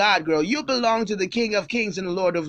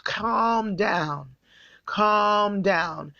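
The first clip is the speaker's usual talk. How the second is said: soothing calm down; much slower than usual. Shown as a demonstration. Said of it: "Please do not react".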